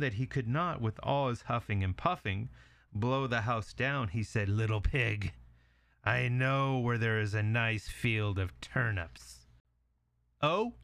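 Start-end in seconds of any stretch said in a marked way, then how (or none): 4.5-9.5 slow, drawn-out wolf voice; lightly voiced wolf laying out bait slowly; luring wolf. Wolf lures the pig. 10.4-10.7 high-pitched, questioning pig; curious little pig. Acted.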